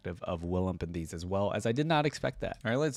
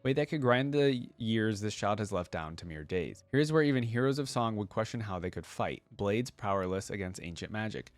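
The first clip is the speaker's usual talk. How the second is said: storyteller's reading voice, even and unhurried; reading a story to viewers; story narration. A narrator's reading. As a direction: read it like a bedtime tale. Reads interactive story aloud.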